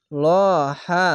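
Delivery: ল held with a thick o before হা; long heavy vowel. Shown as a demonstration. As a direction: draw out a rounded ল, then হা. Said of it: "এক আলিফ টেনে পড়বেন". (ল মোটা করে এক আলিফ টেনে)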